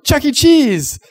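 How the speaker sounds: very high, loud cheer; excited. Retold or imitated. Kid answering parents about where to go, excited. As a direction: shout it out like a thrilled kid. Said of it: "All excited".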